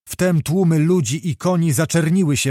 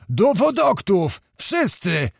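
drawn-out rallying call, raised in pitch; booming call; 5 semitones higher, slower than usual. A narrator's reading. Zagłoba rallies everyone to Wodokty, mildly booming call. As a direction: call out slowly, without a full shout. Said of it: "huknął znowu pan Zagłoba".

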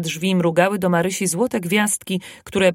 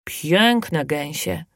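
slow, grave assurance; very slow and solemn; serious; 3 semitones lower, much slower than usual. Acted. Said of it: "dodał Kubuś z powagą".

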